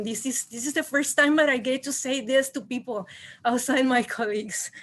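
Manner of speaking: shaky, emotional and nervous; trembling voice. Real, not acted. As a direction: voice quivering as she speaks. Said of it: "Sorry, my voice is trembling".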